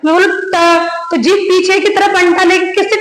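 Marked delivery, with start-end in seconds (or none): 0.0-0.6 "ट" said with the tongue curled back; demo sound ट. Shown as a demonstration. Teacher showing students the retroflex sound. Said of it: "जीभ ना जैसे अंटा ले रही पीछे की तरफ".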